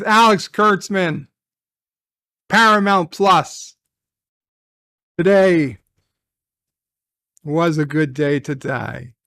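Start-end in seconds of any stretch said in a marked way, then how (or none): 5.2-9.1 Worf line. Retold or imitated. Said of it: "said Worf".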